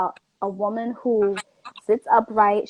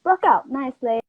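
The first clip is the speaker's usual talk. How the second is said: put-on Jamaican accent. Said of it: "Let me hear the accent. Go ahead".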